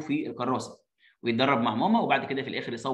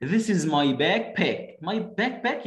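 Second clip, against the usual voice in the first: slow, clear textbook English; drawn-out classroom line; very slow model reading; 3 semitones higher, much slower than usual. Shown as a demonstration. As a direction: read it word by word for kids. Reading child's line slowly.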